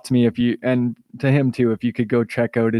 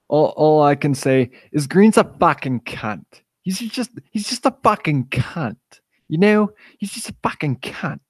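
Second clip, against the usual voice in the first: put-on accent, pitched up high; Big Les accent; 3 semitones higher than usual. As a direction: butcher the accent in a higher, strained-up imitation. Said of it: "I'm sorry if I butcher this accent".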